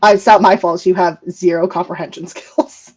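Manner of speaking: lightly put-on Valley Girl retort; a hint of ditzy Valley Girl; dumb Valley Girl. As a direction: do a mild mock Valley Girl. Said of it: "The dumb Valley Girl voice now".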